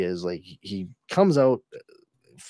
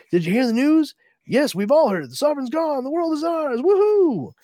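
high, loud mock celebration; jubilant revelry; 8 dB louder than usual. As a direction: whoop it up like a gleeful crowd. Townspeople celebrating, acted.

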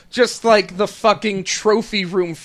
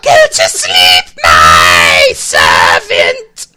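much lower, loud slow villain boom; deep villain voice; 8 dB louder, slower than usual. Acted. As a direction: boom it like a snake overlord. Villain voice joke.

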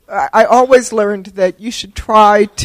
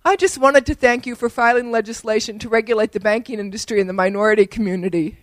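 softer, sweet and pointedly polite; smiling sweetly; 7 dB quieter than usual. Retold or imitated. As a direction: deliver the zinger with a sweet smile. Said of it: "I smiled at him and I said".

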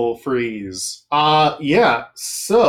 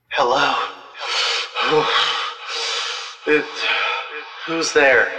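digital echo; 3 semitones higher, 4 dB louder than usual. Acted. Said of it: "cool echo effect on this voice".

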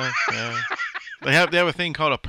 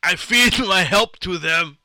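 put-on Indian accent; 3 semitones higher, 5 dB louder, slower than usual. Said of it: "there you go again with the Indian accent".

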